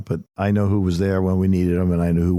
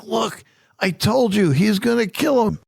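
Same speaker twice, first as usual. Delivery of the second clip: put-on told-you-so little boy; 14 semitones higher than usual. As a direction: gloat like a kid proven right. Grandson Elliot voiced, I told you.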